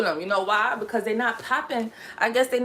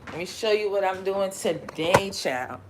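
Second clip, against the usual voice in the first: put-on playful Southern accent. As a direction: repeat it with a put-on Southern lilt. Repeats line in pretended Southern accent.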